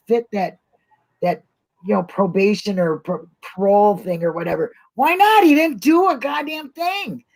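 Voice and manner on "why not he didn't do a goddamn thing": higher, indignant outburst; passionate outburst. Real, not acted. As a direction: let the injustice burst out. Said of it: "I get passionate about certain things".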